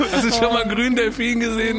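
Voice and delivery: tripping and giggling; giggly high. Acted. Giggly excitement at green dolphin.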